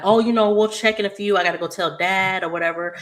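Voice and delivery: high and quick, brushing it off; fast evasive deflection. Retold or imitated. Naomi dodging Jacob's phone check, quick high brush-off. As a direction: hurry past the question, upbeat.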